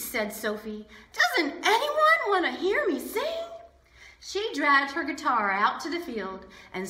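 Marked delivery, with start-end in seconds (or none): 1.1-3.4 put-on plaintive girl. Sophie laments.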